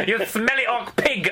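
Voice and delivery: high, laughing French insult; outrageous French accent through laughter. Acted. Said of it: "outrageous French accents".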